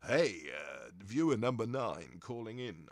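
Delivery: daft radio DJ voice taking a caller; stupid DJ voice. Shown as a demonstration. Showing viewers the silly DJ voice he can't use. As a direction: ham up the phone-in host, then drop it. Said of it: "so I can't do the stupid voice".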